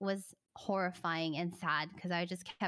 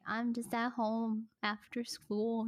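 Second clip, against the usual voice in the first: put-on good girl voice; slower than usual. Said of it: "like a good girl".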